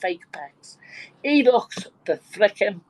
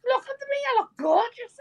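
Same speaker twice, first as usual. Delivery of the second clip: very high, preening show-off; hammed-up boasting. Old man showing off new looks in queue, boasting. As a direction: squeal it with comic self-admiration.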